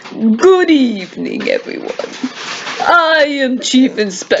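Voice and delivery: lightly acted chief inspector, stretching the greeting; inspector introduction. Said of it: "Give him a different voice".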